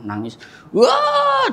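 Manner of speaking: high stretched mock wail; hammed-up fake crying wail, slow and high. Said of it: "itu teriak sih tadi". (tangisan pura-pura yang dilebih-lebihkan)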